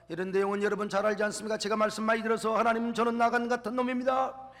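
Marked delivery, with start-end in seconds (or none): 2.6-4.5 louder, rising pleas of a guilty man; loud repentant plea; pleading confession. Retold or imitated. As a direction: cry out a confession before God. Elder's voiced public confession.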